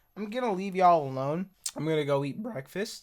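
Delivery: breaking voice. Reviewer signing off to go eat breakfast, voice cracking. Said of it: "My voice is cracking".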